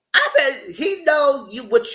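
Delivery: laughing through the words, high and slow. Real, not acted. Vlogger laughs retelling the husband calling. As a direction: chuckle while telling it.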